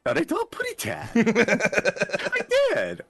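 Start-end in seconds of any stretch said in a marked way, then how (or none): 0.0-1.1 put-on high, fast baby lisp; Tweety voice. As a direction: lisp it like a cartoon bird.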